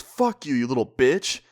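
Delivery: moderately angry retold insult; retold angry snap. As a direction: imitate a friend losing her temper. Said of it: "my friend just snaps".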